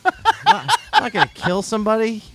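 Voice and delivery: high, loud laughing backpedal. Real, not acted. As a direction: burst out laughing mid-sentence. Laughing at own threat.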